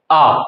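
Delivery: "आ" as a long open ah; German letter A. Shown as a demonstration. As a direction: model German A as a clear "आ". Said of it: "German में इसको बोलते हैं". (German अक्षर A का लंबा "आ" उच्चारण)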